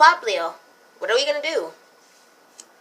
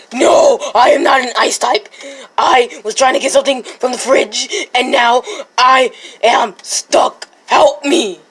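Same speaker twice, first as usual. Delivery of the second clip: distressed plea; 3 semitones higher, 6 dB louder than usual. Acted. Stuck frozen in the fridge.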